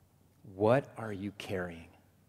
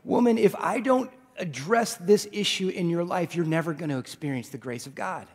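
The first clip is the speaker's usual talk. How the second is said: raised, high preaching voice for Jesus; Jesus calls out firmly to the woman; loud preaching; 8 semitones higher, 9 dB louder than usual. Acted. Preacher voices Jesus calling the woman, loud and high.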